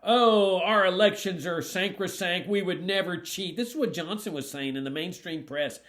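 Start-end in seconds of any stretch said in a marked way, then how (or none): 0.0-3.6 loud drawn-in "Oh", then raised mock indignation; mock protest. Candidate mimicking Johnson's denial of cheating, mock-indignant. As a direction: imitate officials protesting their innocence. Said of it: "at the time they were saying".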